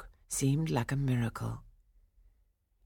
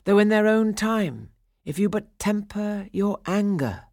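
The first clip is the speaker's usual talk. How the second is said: stone voices; 6 semitones higher, 4 dB louder than usual. A narrator's reading. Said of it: "came the stone voices".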